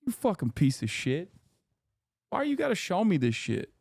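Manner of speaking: mock tirade over a banh mi photo; mock outrage. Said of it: "I was like".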